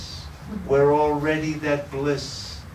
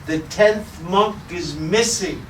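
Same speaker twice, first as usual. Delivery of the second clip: higher and louder, a mock distraught monk; 6 semitones higher, 4 dB louder than usual. Head monk telling the boatman, mock distraught. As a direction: plead the loss with hammed-up grief.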